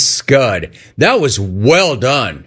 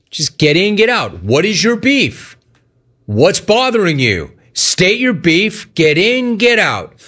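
tag; 6 semitones higher than usual. Real, not acted. Host lectures caller on brevity.

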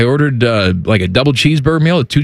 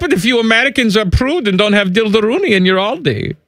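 put-on German accent.

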